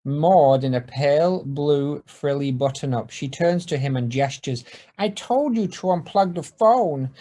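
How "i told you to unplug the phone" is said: lightly voiced Ned. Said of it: "says Ned".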